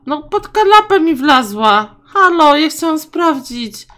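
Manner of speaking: high, loud excited exclamation; high loud surprise at the pet; excited outcry. Real, not acted. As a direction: shout it with delight. Pet hid under the sofa.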